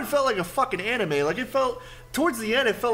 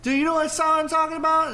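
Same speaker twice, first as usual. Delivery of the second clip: crazed guy; 10 semitones higher than usual. Retold or imitated. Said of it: "he's just like".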